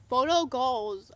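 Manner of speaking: loud, slow gushing emphasis. Real, not acted. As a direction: savor it with loud delight. Gushing over hug photo.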